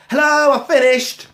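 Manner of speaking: high, loud mock appliance voice; chirpy machine voice. Voicing the washing machine's alert, high mock chirp. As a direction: play the washing machine announcing itself. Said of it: "What's wrong with once?".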